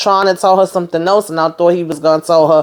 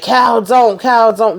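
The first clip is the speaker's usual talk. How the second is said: retold yell; 5 semitones higher, slower than usual. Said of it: "Max is over here yelling".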